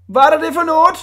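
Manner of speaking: bewildered ringmaster; baffled director. A narrator's reading. Director staring into the box, baffled.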